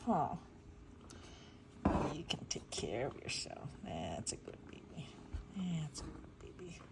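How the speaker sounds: gentle soothing coo. Real, not acted. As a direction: hush it to a whisper. Soothing kitten softly.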